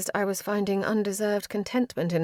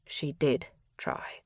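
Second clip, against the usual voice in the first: whispering; 4 semitones lower, 5 dB quieter, slower than usual. A narrator's reading. Cyril defends her gently.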